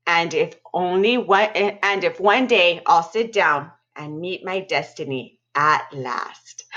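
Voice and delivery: lively read-aloud narration with spooky dips; storytelling voice. A narrator's reading. Librarian reading a scary story to students, animated storytelling. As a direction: tell it like a campfire tale to kids.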